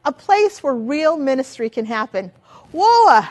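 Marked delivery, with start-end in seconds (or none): 2.7-3.2 a big startled whoa, higher and louder; mock surprise. Teacher feigning shock at babies' needs, loud surprised whoa. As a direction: jump in with a playful mock shock.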